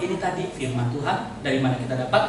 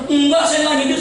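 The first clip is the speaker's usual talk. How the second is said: mock timid denial; 9 semitones higher, 4 dB louder than usual. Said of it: "Kalau pendeta takut kan bilang".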